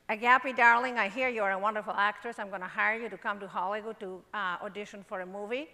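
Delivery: put-on shaky go at an American accent; attempted American accent. Greek tycoon phoning to hire her, in attempted American accent. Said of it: "How's my American accent? Not so good?".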